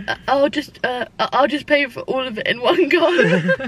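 stammering, awkward offer to pay; haltingly re-enacted awkwardness. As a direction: fumble it with hesitant uhs, as if flustered. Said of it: "sense how awkward it was".

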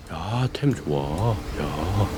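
very soft and slow; hushed. Real, not acted. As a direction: keep it down, almost under breath. Sneaking up on sleeping NPC.

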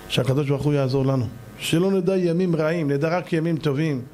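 slow, measured blessing voice; closing prayer. Acted. Preacher blessing his audience at the end, in a slow prayer voice. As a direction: pray it out slowly to the congregation.

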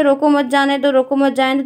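रोको मत जाने दो run together, both times alike; no comma pause. Shown as a demonstration. Teacher shows students how both sentences sound the same, रोको मत जाने दो unbroken. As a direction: read रोको मत जाने दो straight through without breaks. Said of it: "आपको हमेशा ये सेम लगेगा".

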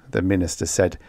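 usual speaking voice

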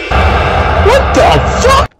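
very high, slow squeak of shock; squeaky disbelief. Real, not acted. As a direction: let the voice jump up in shock. Shocked at NPC.

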